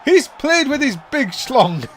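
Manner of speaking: laughing. Real, not acted.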